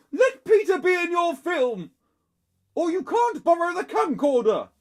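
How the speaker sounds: high, loud parental ultimatum; yelled order. A narrator's reading. Mum orders Henry to include Peter, yelling. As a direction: yell the threat from afar. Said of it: "yelled Mum".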